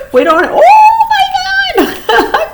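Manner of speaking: bursts out laughing, high and loud; real shocked laugh breaking into a shout. Real, not acted. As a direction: shriek the words through a laugh. Shocked at the card drawn.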